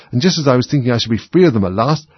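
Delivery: exasperated pigeon, pitch climbing, slowing at the end; rising shriek. A narrator's reading. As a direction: work up from fretting into a shrill shriek. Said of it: "raising its voice to a shriek".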